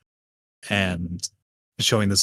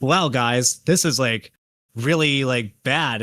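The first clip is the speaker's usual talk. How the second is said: lightly raised, hyped youtuber tone; mock commentary voice; 3 semitones higher, slower than usual. Mocking commentary youtubers to a friend, a hint of hyped overreaction. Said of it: "the commentary voice and going like".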